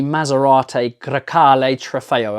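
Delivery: car name in a put-on Italian accent; weird Italian accent. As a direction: roll it out with a playful Italian accent. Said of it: "say it with a weird Italian accent".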